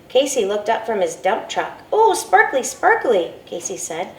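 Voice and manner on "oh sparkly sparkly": put-on high, thrilled little boy; delighted child. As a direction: marvel at the sparkle like a small kid. Delighted child sees sparkle.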